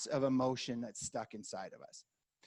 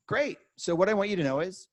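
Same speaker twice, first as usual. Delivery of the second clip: upbeat greeting; 4 semitones higher, 5 dB louder than usual. Shown as a demonstration. Realtor reassures upset client.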